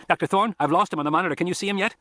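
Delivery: put-on teen boy warning the doctors over the radio, high and urgent; urgent kid on the radio. A narrator's reading. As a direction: play the boy pleading to get in the car. Arby on the radio.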